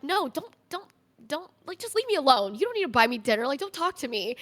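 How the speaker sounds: upset refusal. Retold or imitated. Pushing him away, retold.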